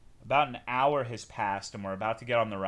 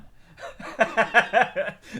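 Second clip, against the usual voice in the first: loud laugh; 9 semitones higher, 7 dB louder than usual. Real, not acted. Laughs at own joke.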